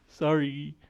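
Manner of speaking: giggly squeaky captive; put-on captive voice. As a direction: apologise through a giggle in character. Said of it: "this is the voice".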